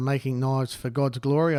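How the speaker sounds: ordinary talk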